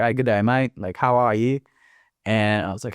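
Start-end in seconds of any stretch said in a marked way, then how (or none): 0.0-1.6 light Australian or British greeting; imitated Australian accent. Australian guy greeting the new arrival, mock Australian accent. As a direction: lightly mimic an Australian's friendly hello. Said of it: "some, like, Australian guy or some British guy".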